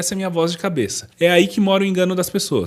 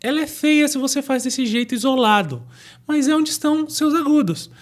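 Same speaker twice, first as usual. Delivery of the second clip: much higher, half-sung head voice; 10 semitones higher than usual. Shown as a demonstration. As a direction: keep speaking up in head voice. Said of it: "que é essa voz aqui".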